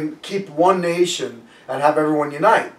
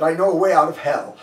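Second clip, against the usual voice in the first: laughing. Retold or imitated. Gandhi's answer with a laugh.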